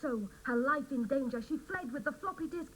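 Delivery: lightly mock news-report read; reading her news story. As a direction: try out the scoop like a broadcast. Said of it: "How does this sound, Julia?".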